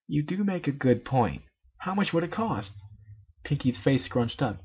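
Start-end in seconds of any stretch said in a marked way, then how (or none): 0.1-2.7 raised-pitch tomboy pony, exasperated; a sporty pony losing patience, voiced high; high-pitched cartoon pony insisting it won't work; Rainbow Dash voice.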